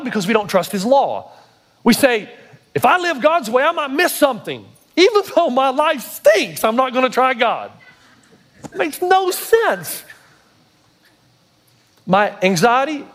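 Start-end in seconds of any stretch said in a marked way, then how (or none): 2.7-10.0 raised pitch, incredulous sermon delivery; impassioned preaching. Acted. Preacher voicing why we disobey God, incredulous and high. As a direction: hammer home how senseless it is. Preacher mimics reasoning, then exclaims.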